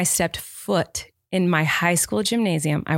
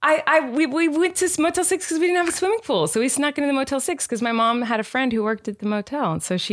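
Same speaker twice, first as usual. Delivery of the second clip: put-on Southern accent; 7 semitones higher than usual. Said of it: "doing this in a Southern accent".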